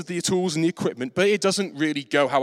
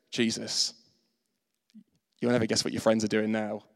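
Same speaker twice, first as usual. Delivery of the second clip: Holy Spirit voiced; 6 semitones lower, 5 dB quieter than usual. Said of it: "the Holy Spirit goes".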